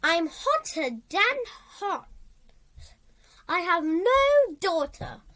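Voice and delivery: crackling, pleading call from a hot pot. A narrator's reading. The red-hot cauldron pleading with Flora, a crackling voice. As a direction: beg for help like a burning pot. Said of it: "a voice like crackling twigs".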